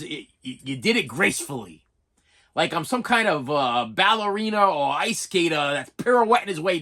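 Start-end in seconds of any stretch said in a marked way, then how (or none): 0.0-1.8 lower, softer, dry compliment; deadpan boyfriend. Retold or imitated. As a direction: say it dry and low, a hint of a teasing boyfriend. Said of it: "his comment was".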